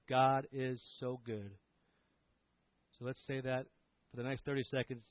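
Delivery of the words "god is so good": slow breath prayer. Shown as a demonstration. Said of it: "this breath prayer of".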